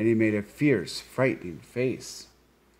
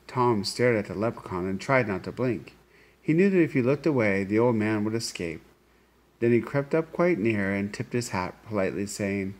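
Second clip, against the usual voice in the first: story narration. A narrator's reading. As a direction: read it like a tale to a class. Reads story to children.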